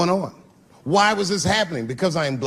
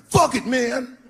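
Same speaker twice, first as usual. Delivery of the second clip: higher, cocky, drawn-out dare; cocky dude; 8 semitones higher, slower than usual. Retold or imitated. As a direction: act tough, slow and sure. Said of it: "He was like".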